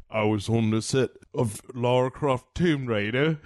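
lightly put-on movie star voice; deadpan send-up of a film star; Daniel Craig. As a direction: do a mild mock impression of the actor. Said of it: "Daniel Craig is like".

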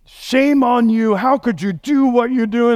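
high-pitched scolding preacher impression; mock angry. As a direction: act out a shaming rebuke from the pulpit. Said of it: "it's this angry".

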